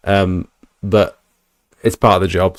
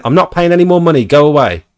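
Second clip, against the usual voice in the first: higher, sharp dismissive voice; mock angry old lady; 6 semitones higher, 4 dB louder than usual. Old lady sending the leaflet man away, mock angry. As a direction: brush him off like a cross old lady. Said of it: "totally unnecessarily angry".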